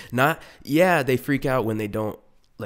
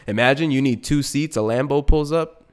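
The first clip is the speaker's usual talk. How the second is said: usual speaking voice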